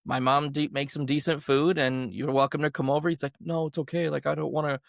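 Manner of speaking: light American accent, retold. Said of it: "sorry, I sound American".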